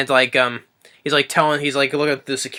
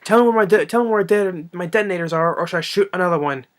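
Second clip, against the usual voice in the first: mock menacing demand; 6 semitones higher than usual. Hans threatening the hostages, mock menacing. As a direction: press the hostage hard. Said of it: "Hans Gruber's like".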